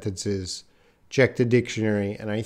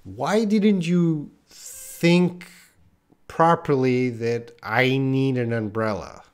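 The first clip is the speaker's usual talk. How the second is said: scolding question; slower than usual. Retold or imitated. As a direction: scold someone for not thinking ahead. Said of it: "So that would be saying".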